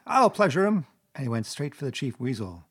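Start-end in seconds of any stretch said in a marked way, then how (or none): 0.1-0.9 loud, high, frenzied Toad; yelled threat. A narrator's reading. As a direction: yell it as a vengeful threat. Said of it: "he yelled".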